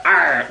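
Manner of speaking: rolled pirate growl; short play-acted pirate arr. Playing pirate with parrot.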